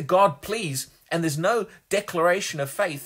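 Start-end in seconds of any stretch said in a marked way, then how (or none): 0.0-0.9 higher, louder imitation of a plea; briefly acted begging; mock begging. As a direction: plead as a faithless beggar would. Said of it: "then it's just begging".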